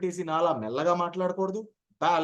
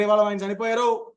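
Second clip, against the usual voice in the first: rushed condolence; 3 semitones higher, 4 dB louder than usual. Shown as a demonstration. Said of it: "అని పరిగెట్టకూడదు నేను".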